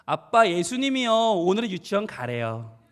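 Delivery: lightly voiced child, drawn out at the end; obedient little child. Child telling dad Jesus says go, resigned. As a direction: imitate a child dutifully reporting to dad. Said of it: "아이가 눈을 떴어요".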